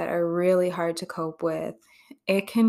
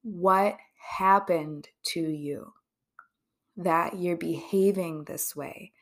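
slow, softer caring question; gentle, curious question; 3 dB quieter, slower than usual. Shown as a demonstration. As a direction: ask it with real concern. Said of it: "what we should say is".

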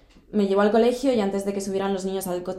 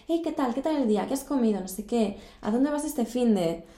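mock friendly chat; 4 semitones higher than usual. Imita su antigua charla cordial.

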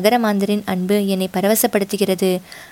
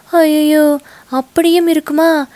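higher, louder horrified cry on ஐயையோ; alarmed shout; 7 semitones higher, 4 dB louder than usual. Acted. Rakkammal crying out that the prince may be possessed, higher and louder. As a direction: shriek ஐயையோ in sudden horror. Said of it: "என்று கத்தினாள்".

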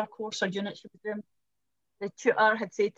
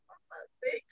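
exasperated; 14 semitones higher, 8 dB quieter than usual. Retold or imitated. Exasperated reaction to being misread.

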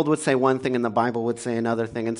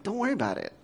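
dismissive line; 6 semitones higher, 7 dB quieter, much faster than usual. Retold or imitated. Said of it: "what you say is like".

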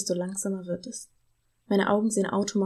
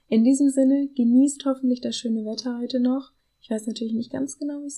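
higher, louder cheerful farewell, In diesem Sinne lifted; bright sign-off; 4 semitones higher, 4 dB louder than usual. Real, not acted. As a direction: wish them a nice day with energy. (fröhlich und lauter: In diesem Sinne)

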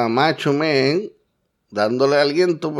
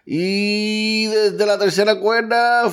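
drawn-out build-up; 6 semitones higher, slower than usual. Real, not acted. Top rope build-up.

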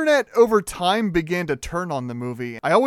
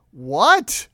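mock yell of disbelief, a bit louder; retold yell; 5 dB louder than usual. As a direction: re-enact a baffled outburst, held back from full volume. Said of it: "was me loudly yelling".

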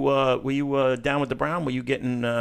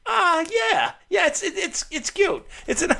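squeaky, much higher mock-shy voice with giggles; mocking her answer; 14 semitones higher than usual. Host mocks the guest's hesitant answer in a high giggly voice. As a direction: parody her bashful reply, pitched way up. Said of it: "She's like".

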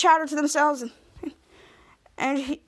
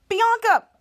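high, punchy call of a name; retold shout; 9 semitones higher, 4 dB louder than usual. Boy calling Bianca over to the locker, mock shout. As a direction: imitate someone shouting out for a classmate. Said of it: "he shouts out".

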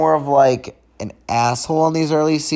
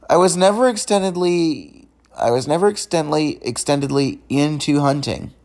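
stumbling restart, repeating the phrase; stuttering. Real, not acted. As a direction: trip over the words and start again. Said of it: "Sorry that I'm stuttering".

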